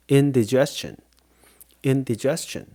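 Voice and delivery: indigestion as in-dih-JES-chun, said for repeating; model for repeating. Shown as a demonstration. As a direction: model indigestion clearly, pausing between takes. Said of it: "따라해보세요".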